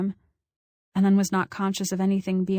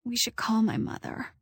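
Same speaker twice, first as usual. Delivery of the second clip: weak, shaky voice; 3 semitones higher, 4 dB quieter than usual. A narrator's reading. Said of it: "I was stuttering now".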